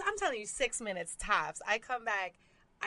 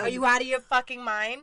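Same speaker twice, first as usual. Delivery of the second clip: retold anger; 4 dB louder than usual. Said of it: "And I was like".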